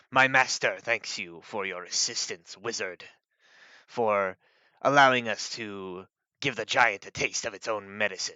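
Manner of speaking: a hint of a grumbling dragon; lightly voiced dragon grumble; deep grumbling dragon. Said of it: "said in this sort of deep grumbling voice".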